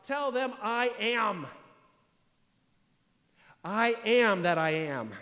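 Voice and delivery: voice of God. Retold or imitated. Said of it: "Moses is told this by God".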